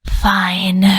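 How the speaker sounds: breathy, resigned whisper; sighed whisper. A narrator's reading. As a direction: give in with a sigh. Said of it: "she finally said with a deep sigh".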